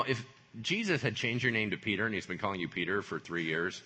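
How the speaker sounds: usual speaking voice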